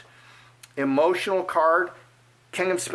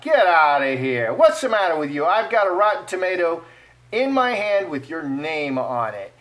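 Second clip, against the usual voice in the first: hostile heckler. Pretend. British heckler with rotten tomato, hammed-up hostile jeering. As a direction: jeer like someone about to throw tomatoes. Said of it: "a warm or a hostile reception".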